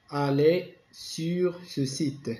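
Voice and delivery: slow, word by word; measured classroom dictation. Shown as a demonstration. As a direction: dictate it slowly. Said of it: "réécris cette phrase".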